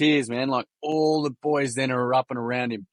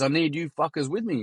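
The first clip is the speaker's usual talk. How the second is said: higher, lightly imitated Kiwi boy; Kiwi accent; 4 semitones higher than usual. Kiwi boy asks his mates for support, higher Kiwi accent. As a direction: appeal in a put-on Kiwi voice. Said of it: "Excuse my Kiwi accent".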